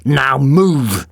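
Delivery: firm loud order; thundering command. A narrator's reading. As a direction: bark the order. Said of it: "the doctor thundered".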